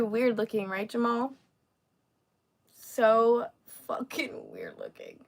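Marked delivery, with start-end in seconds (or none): 3.9-5.2 very low, quiet growled voice; deep growl. Pretend. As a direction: drop to a low monster rumble. Deep voice aside on weird looks.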